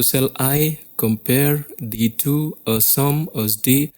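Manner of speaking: slow iambic "Shall I compare thee to a sum as day", hitting I, PARE, TO, SUM, DAY; da-DUM beat through "Shall I compare thee to a sum as day"; second syllables accented. Shown as a demonstration. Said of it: "every second syllable is accented".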